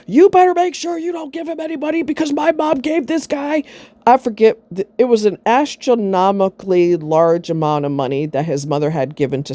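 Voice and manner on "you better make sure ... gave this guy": retold yelling. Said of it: "he was yelling at me".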